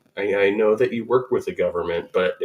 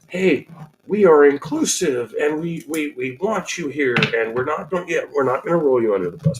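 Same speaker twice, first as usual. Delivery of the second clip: higher, mock-earnest inclusive announcement; welcoming sign voice; 4 semitones higher than usual. Host voicing a sign saying you're included, mock welcome. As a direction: play the voice of a cheery inclusive sign.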